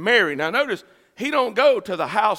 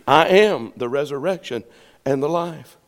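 a lightly voiced, lower-pitched Jesus; Jesus's calm answer; 3 semitones lower than usual. Jesus answers a parent worried for lost children, lightly voiced low. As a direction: answer low and measured, a touch of authority.

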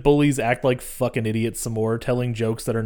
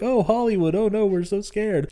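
higher, sarcastic mock fear; mocking bullies; 9 semitones higher than usual. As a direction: sneer it like a teen bully. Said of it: "And they're like".

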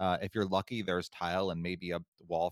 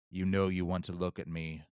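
sinister apparition. Retold or imitated. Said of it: "the voice then says again".

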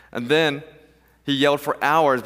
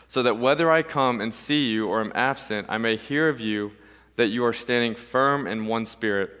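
lower, measured reading to a congregation; scripture reading; 3 semitones lower than usual. Real, not acted. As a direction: read the passage out evenly and solemnly. Reads a scripture passage aloud.

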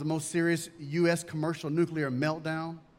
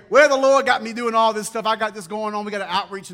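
louder, boastful pastor bragging; 3 semitones higher, 8 dB louder than usual. Retold or imitated. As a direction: brag loudly about being busy for the Lord. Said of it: "sometimes we brag and say".

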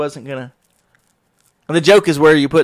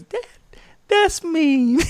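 put-on laughing kid's protest; much slower than usual. Youngest son chiming in laughing.

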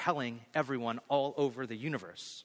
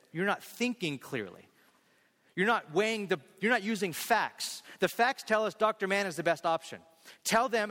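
retold anger; 5 semitones higher than usual. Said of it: "and he's mad".

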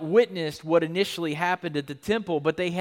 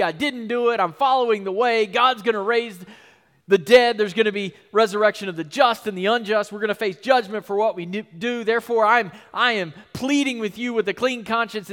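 emphatic, raised-voice plea; Paul pleading with energy; 3 semitones higher, 4 dB louder than usual. Retold or imitated. Paul defending himself before the governor, impassioned. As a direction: press the case with fervor. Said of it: "You can feel all the emotion and the energy".

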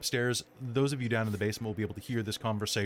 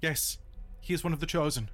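wife's voice; 6 semitones higher than usual. Acted. GM voices the wife.

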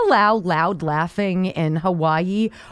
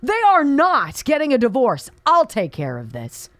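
exploding sister; 6 semitones higher than usual. Retold or imitated. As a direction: burst out like a sister who won't allow it. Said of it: "who explodes".

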